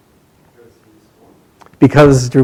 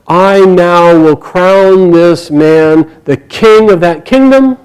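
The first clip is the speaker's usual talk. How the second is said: slow, louder royal proclamation; 3 semitones higher, 4 dB louder, much slower than usual. A narrator's reading. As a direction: proclaim it slowly, pitch climbing at the end. Proclaims a coronation in the story.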